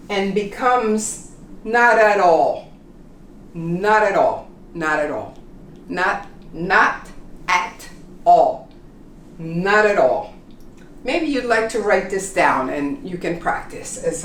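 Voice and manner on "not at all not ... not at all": Not at all linked, t's like R; flapped t. Shown as a demonstration. Teacher drilling the linked phrase. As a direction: repeat Not at all smoothly. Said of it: "becomes like an R".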